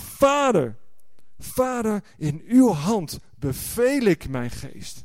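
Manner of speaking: high cried Vader, slowing; calling out. Retold or imitated. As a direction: call to the Father from the cross. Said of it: "En hij roept het uit". (uitroepend, hoog en langzaam)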